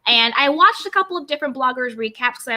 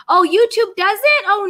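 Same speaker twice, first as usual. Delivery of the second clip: surprised; 7 semitones higher, 5 dB louder than usual. Real, not acted. Host learning YouTube skips notifications, surprised. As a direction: caught off guard, voice jumping up.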